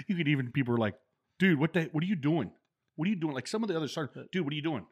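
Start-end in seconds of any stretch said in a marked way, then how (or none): 1.4-3.3 high, loud mock protest; baffled sergeants. Sergeants protesting the new guy's inspection, high loud disbelief. 4.3-4.9 baffled sergeant. Retold or imitated. Other sergeants protesting.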